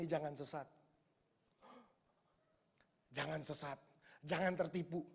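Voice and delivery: low, soft, solemn warning; voice of God. Pretend. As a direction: warn gravely as God. God warns the preacher. (suara Tuhan memperingatkan, rendah dan khidmat)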